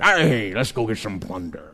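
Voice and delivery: a half-hearted pirate growl for fun; swashbuckling pirate impersonation. Pretend. Preacher jokes to the congregation as a pirate, mild. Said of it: "my best, uh, swashbuckling impersonation".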